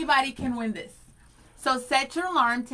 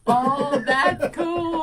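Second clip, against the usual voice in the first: mock Siri voice; 6 dB louder, much slower than usual. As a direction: imitate the phone assistant. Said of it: "Don't do that".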